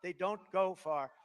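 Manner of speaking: slow, sing-song childish mock; mocking first grader. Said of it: "That sounds so basic".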